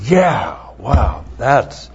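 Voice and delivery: sarcastic, a little shouted on yeah; lightly voiced mock English majors; mock unimpressed reaction. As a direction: mimic bored students faking awe. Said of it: "you're going".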